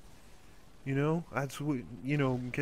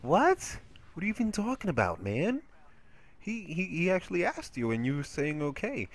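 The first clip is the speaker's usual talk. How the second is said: retold disbelief; 5 semitones higher than usual. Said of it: "I'm like".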